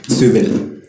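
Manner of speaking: Swivel said the Egyptian way, soo-vil; Egyptian accent. Shown as a demonstration. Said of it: "let me say it how he says it".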